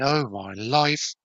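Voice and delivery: put-on slow, drawn-out borrowed regional accent; Wayne's accent. Viewer's comment read out about picking up a catchphrase, lightly imitated accent. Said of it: "do it with a bit of an accent".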